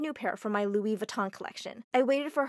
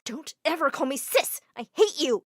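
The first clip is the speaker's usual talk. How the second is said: furious retort, loud at the end; angry shout; 4 semitones higher, 5 dB louder than usual. Acted. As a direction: snap back at her sister in rage. Angry sister shouting back.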